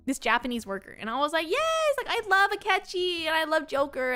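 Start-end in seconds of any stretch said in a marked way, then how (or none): 1.5-4.1 gushing fangirl. Retold or imitated. Excited fangirl reply to worker.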